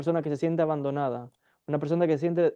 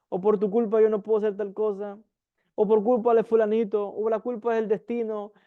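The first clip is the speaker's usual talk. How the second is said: accusing victim complaint; 4 semitones higher than usual. Retold or imitated. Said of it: "y dicen".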